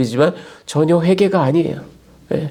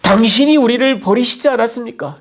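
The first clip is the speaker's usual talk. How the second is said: higher, indignant complaint to God; bold accusation; 6 semitones higher than usual. Acted. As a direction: accuse God boldly, voice raised in pitch. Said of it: "당돌하게 하나님을 비난합니다".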